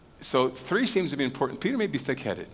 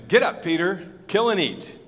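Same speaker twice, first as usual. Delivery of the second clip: a raised, firm command, lightly voiced; commanding heavenly voice; 5 semitones higher, 4 dB louder than usual. Heavenly voice ordering Peter to eat, lightly commanding. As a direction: give it as a louder, higher order. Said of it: "A voice came to him".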